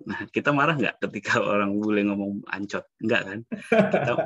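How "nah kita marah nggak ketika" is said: ordinary talk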